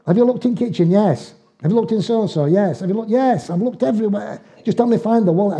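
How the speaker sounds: snappy, fed-up question and answer; bickering couple. Retold or imitated. Husband and wife bicker over where he searched, rising irritation.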